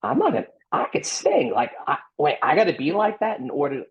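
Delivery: high surprised realization; a singer realizing. Retold or imitated. A singer realizing he must work the crowd, high and surprised. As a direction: catch yourself mid-thought. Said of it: "he figured out".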